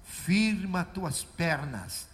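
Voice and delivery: hint of Jesus, steady and slow. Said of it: "falou assim, ó".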